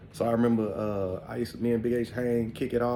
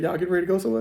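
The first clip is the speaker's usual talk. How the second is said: much higher, louder mock grandma voice; grandma's question; 10 semitones higher, 7 dB louder, much faster than usual. Grandma questioning her sons before the club, high. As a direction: pitch it up like a knowing grandma. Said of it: "She said".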